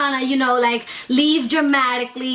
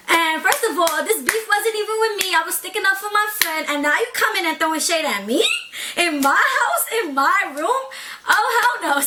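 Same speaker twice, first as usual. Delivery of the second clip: rising outrage; 5 semitones higher than usual. Real, not acted. Outraged retelling, rising pitch.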